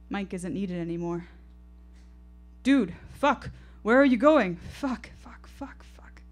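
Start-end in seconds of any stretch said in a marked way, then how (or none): 2.6-4.6 high, loud frightened calls; panicked shout. Acted. Mike shouts in panic as his friend walks off, high and loud. 4.6-6.2 whispered curses dying away; fading mutter. Acted. Mike mutters curses as he fades into the distance, whispered. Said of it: "Mike is muttering as he fades".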